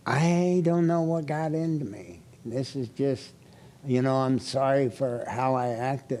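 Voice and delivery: a quiet, humbled sorry; soft apology. Retold or imitated. Wife apologizing to husband before the party, softly.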